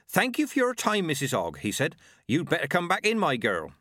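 Nanny Ogg lightly mimicking the stranger; quoting the man.

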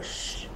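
long hushing shhh; shushing. Acted. Telling the warner to hush. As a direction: hush him sharply.

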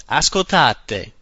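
Ascoltate said in Italian, as ah-skol-TAH-teh; crisp Italian vowels in Ascoltate; teacher modelling Italian; Italian word. Shown as a demonstration. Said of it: "The first one is ascoltate".

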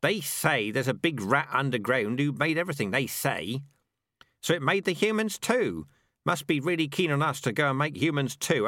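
high-pitched scoffing rat; sceptical rat. Acted. Rat muttering about the big rat who made everything, sceptical.

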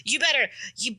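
mock tough guy boasting he'll skip class; Drake Bell as Wolverine. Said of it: "with his, like, voice up here".

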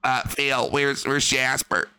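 a first, plain try at the worried wife; just ask where the cat is; plain wife question. Pretend. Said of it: "Cat would go like".

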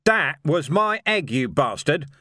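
screaming in fury. Acted. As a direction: scream it at the attacker. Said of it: "he screamed".

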